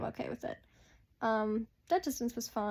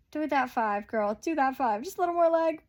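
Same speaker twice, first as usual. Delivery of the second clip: urging on; 2 semitones higher, 5 dB louder than usual. Real, not acted. Urging her horse on in video.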